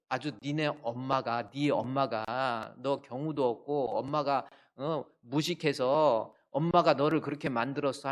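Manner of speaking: loud, drawn-out mock tirade; slow, punched scolding, phrase by phrase; angry Saul. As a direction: act out a father insulting the mother. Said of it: "사울이 요나단에게 화를 내며".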